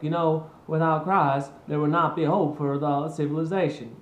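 put-on wooden Southern accent. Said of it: "that's my Southern accent".

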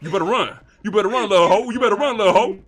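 loud mocking threat; loud jeering taunt; taunting shout. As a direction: jeer him away loudly. Chasing off rival.

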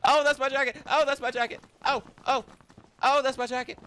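gasping high and loud; mock gasp. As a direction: act shocked with a gasp. Gasping repeats of jacket line.

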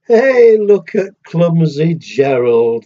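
loud taunting call, drawn out; mocking jeer. Lions jeering at clumsy Gerald, a loud mocking call. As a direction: jeer at him from across the floor. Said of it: "the animals all laughed".

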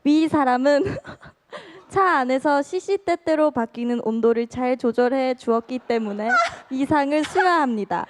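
laughing while reading. Real, not acted. Reads award through laughter.

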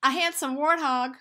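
loud mocking quip; teasing. Melon insulting warthog, loud teasing. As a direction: fling the joke at him.

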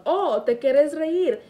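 loud, high, slow mock scolding; imitated angry mother. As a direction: act out a threatening mom in Spanish. Imitates mother about to hit her.

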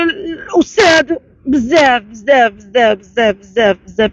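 crying out in grief and anger; angry crying. Real, not acted. Mother breaks down telling abuse.

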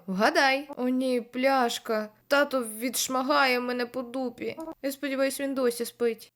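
usual speaking voice

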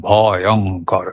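ভয়ঙ্কর slow and low, cut into ভ, অং, কর; broken between syllables. Shown as a demonstration. Teacher demonstrates the wrong way, broken between syllables. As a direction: chop ভয়ঙ্কর into separate drawn-out syllables. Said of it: "তখন কি কেটে এলো?".

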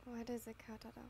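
soft, lightly teasing question. Acted. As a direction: tease him gently. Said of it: "There was a hint of teasing in his voice".

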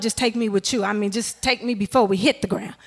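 hushed, breathless whisper to God; scared passenger whispering a final prayer. Retold or imitated. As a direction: whisper it like a last plea. Praying during plane drop.

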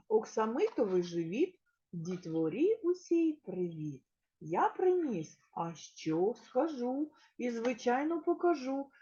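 sing-song hedgehog verse for little ones; children's rhyme. Acted. Teacher reciting a rhyme to small children, bright and sing-song.

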